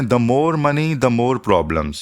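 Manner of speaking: every word spaced out, very slow; slow example read. Shown as a demonstration. Teacher presenting an example to viewers, slow dictation. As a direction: dictate it slowly to the class. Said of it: "एक और example देखते हैं".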